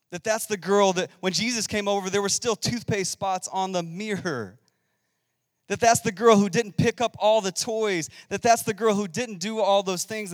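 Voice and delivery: building intensity. Real, not acted. Building the imagined gossip.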